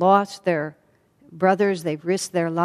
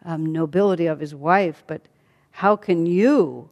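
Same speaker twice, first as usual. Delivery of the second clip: indignant. Acted. Sita rebuking her husband Rama for doubting her, indignant. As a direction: push back hard, offended and disbelieving.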